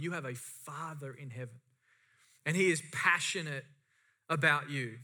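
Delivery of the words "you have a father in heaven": soft. Acted. Tender reminder to the church.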